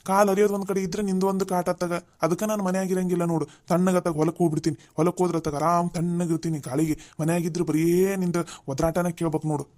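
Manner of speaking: loud, fed-up scolding back; irritated retort. Acted. Father-in-law loudly fed up with daughter-in-law's nagging. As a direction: snap back, sick of her nagging.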